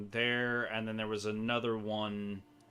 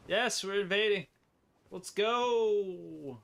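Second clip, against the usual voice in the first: excited; 9 semitones higher, slower than usual. Real, not acted. Invasion starting.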